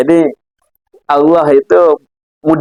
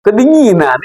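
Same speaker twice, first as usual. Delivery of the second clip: mock complaining; 5 semitones higher than usual. Preacher mimics people griping whenever it rains, mock complaining. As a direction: gripe about the cold in jest. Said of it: "Iya, ngeluh terus berarti".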